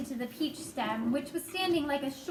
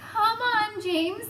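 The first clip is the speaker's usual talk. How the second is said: coaxing; 8 semitones higher, 4 dB louder, much slower than usual. A narrator's reading. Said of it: "coaxing him".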